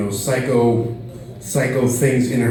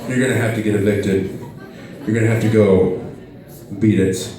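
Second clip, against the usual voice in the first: neighbor; 6 semitones lower than usual. Retold or imitated. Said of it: "the neighbors are gonna knock on my door and say".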